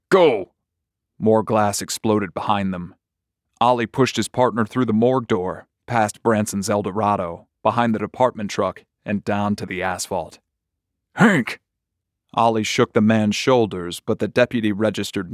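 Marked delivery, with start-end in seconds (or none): 0.1-0.5 higher, louder barked command; short raised shout; urgent shout. Acted. Urging frozen deputy to flee. 11.2-11.6 name cried out much higher; sharp high yell, falling away; urgent shout. Acted. Shaking unresponsive deputy outside.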